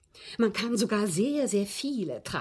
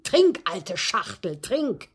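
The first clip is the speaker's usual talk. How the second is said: John's taunt; 5 dB louder, slower than usual. Retold or imitated. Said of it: "rief John".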